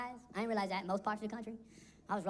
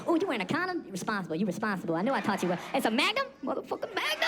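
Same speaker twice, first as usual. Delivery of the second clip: proud dad. Retold or imitated. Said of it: "You be coaching him".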